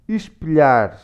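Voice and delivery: "Espelhar" as "ishpilyar", hushed s; Portuguese pronunciation demo. Shown as a demonstration. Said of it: "When you have an L and an H".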